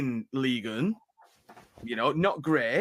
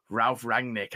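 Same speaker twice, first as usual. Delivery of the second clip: northern accent; slower than usual. Shown as a demonstration. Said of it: "I'm gonna say it in a very northern voice".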